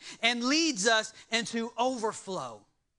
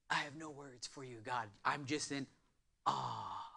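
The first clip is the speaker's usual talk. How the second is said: much softer and lower, hushed in awe; hushed prayer to God; awed hush; 8 semitones lower, 12 dB quieter than usual. Real, not acted. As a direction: breathe it out in reverent wonder. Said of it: "you get to a point of awe".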